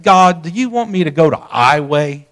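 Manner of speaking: retold smart-aleck prayer. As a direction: ask God with a touch of cheek. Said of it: "sort of a smart aleck tone".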